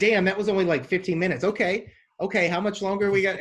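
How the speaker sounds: hungry for the next episode; impatient eager. Retold or imitated. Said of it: "we're like".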